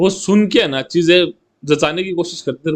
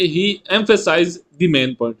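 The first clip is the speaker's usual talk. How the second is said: very slow example; much slower than usual. Shown as a demonstration. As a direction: read very slowly, word by word. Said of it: "अपन क्या बोलेंगे?".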